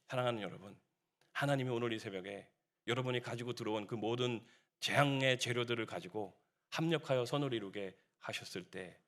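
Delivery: low, soft pastoral voice; tender blessing. Real, not acted. Preacher blessing beloved congregation at dawn, soft pastoral blessing. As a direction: drop down and gently bless the listeners.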